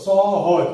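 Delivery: সহজ said firmly, each অ clear; sounding out সহজ. Shown as a demonstration. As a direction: call out সহজ as sɔhɔj. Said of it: "হজ এর আগে দন্তস্ব".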